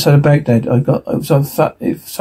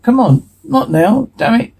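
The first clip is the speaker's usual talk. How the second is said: panicked; 9 semitones higher than usual. Acted. Weapon malfunction panic.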